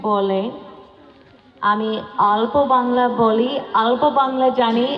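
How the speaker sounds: halting learner's Bengali, English accent; foreign accent bengali. Real, not acted. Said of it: "আমি বাংলা শিখছি".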